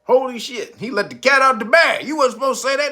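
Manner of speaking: shouting it, half laughing in mock alarm. Reacting to the leaked quote, mock alarmed shout. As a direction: blurt it out like a scandal.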